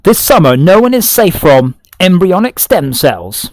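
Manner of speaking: dramatic doom-laden trailer read; horror trailer voice. Pretend. Repeats the trailer line.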